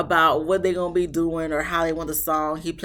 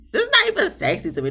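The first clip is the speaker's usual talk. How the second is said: incredulous; 4 dB louder, much faster than usual. Real, not acted. Disbelief at scene.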